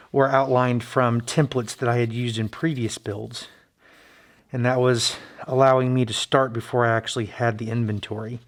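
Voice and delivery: speaking through a face mask; muffled behind a mask. Real, not acted. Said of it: "If I sound a little bit muffled".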